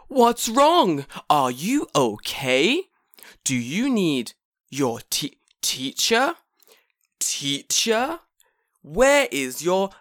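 high, slow, fretting sing-song voice; mock fussy manager. Manager fretting over a crying girl, high and slow. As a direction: coo at the crying kid like a flustered manager.

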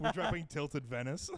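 slow laughing delivery. Real, not acted. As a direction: chuckle through the words. Joking, laughing.

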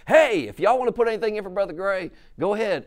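high, mock-folksy pastor calling out; a hint of a pastor announcing the offering; imitating the pastor. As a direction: lightly put on the country pastor's voice.

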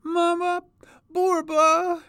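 put-on very high child's wail; crying little child. A narrator's reading. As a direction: wail for mother like a lost little one. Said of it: "cried a little voice".

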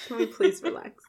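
fed-up viewer begging the show to chill; exasperated plea. Retold or imitated. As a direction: beg them to relax, half laughing. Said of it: "I was literally just like".

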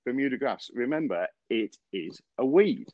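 a light imitation of the Southern superintendent lecturing; southern drawl. Superintendent teaching Andy about Bermuda grass, in southern drawl. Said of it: "it has to be said really in a southern drawl".

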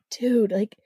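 hushed incredulous aside; whispered disbelief. Retold or imitated. Narrator at the sink, whispering in disbelief. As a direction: breathe it out in disbelief. Narrator muttering back at flirt.

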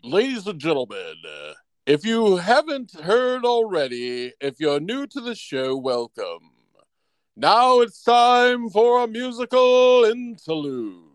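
showman introducing an act; announcer voice. Acted. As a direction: announce it to the room. Announces musical interlude.

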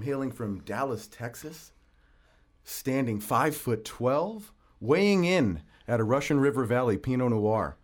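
booming ring announcer build-up; grand entrance announcement. Pretend. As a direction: announce him like a prizefighter. Boxing ring style guest introduction.

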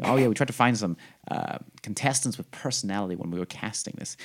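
a hint of an American accent, lightly imitated. Mocking the show's producers in a light American accent. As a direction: quote the producer like an American TV exec. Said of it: "in my head, it's like an American accent".

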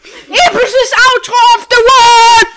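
high, slow, shouted announcement; epic announcer. Pretend. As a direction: hype it up like an outro.

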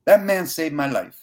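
high, choked-up tearful voice; fighting back real tears. Real, not acted. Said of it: "I got tears coming out of my eyes".

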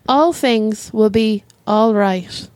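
very slow, grand soothing line; solemn reassurance. Pretend. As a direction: draw it out like a solemn blessing. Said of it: "and I think".

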